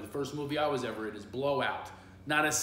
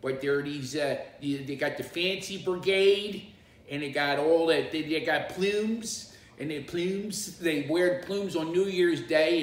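Philadelphia accent; 4 semitones higher, 5 dB louder than usual. Shown as a demonstration. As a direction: play up the nasal Philadelphia sound. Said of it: "That's a Philadelphia accent".

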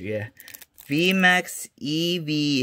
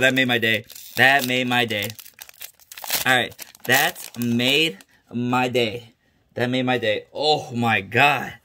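thrilled; 3 semitones lower, 4 dB louder than usual. Real, not acted. Calming, still thrilled.

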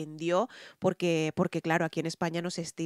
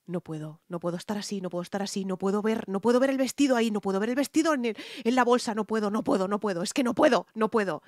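anxious pleading; faster than usual. Retold or imitated. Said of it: "le dije yo a mi cacahuate".

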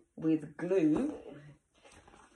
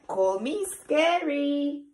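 playful monster voice; 8 semitones higher, 4 dB louder, slower than usual. Acted. Reading monster refrain.

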